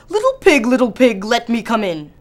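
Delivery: loud, fierce wolf call. Acted. Wolf demands entry at the stick house, fierce and loud. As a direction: growl it out to scare the pigs. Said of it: "saying in a fierce voice".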